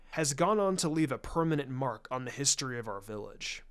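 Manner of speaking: a hint of a knowing elder; lightly voiced clan leader. Shikaku speaks to Hinata.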